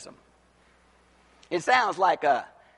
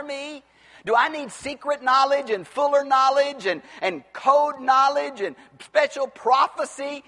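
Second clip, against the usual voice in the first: higher-pitched, emphatic sermon delivery; impassioned preaching; 6 semitones higher, 3 dB louder than usual. Acted. Preacher challenging the church's need for secret knowledge, impassioned. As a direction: preach it high and insistent. Preacher rises to full force.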